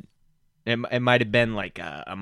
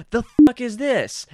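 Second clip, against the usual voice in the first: higher, louder tough-guy growl; Danny Trejo impression; 11 semitones higher, 6 dB louder than usual. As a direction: bark it like a movie thug. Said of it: "Danny Trejo going".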